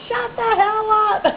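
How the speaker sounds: high, drawn-out mock yell; retold screaming. Friend pushing the wheelchair to her rider, mock screaming. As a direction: imitate a friend screeching back, slowly stretched. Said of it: "she's screaming at me".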